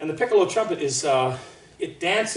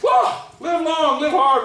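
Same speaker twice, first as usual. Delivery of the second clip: hammed-up French accent, high and loud; a jolly Frenchman mocking uptight Americans in a French accent; happy fat Frenchman; 11 semitones higher, 8 dB louder, slower than usual. Teacher mocking the French attitude to Americans, hammed-up French accent. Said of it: "happy, fat Frenchman".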